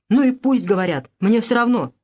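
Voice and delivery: в сердцах, быстро выпалить; бросить с отчаянием, чуть громче; отчаянно выпалила. Acted. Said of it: "отчаянно махнула рукой и выпалила". (Анна в сердцах отвечает матери, отчаянно)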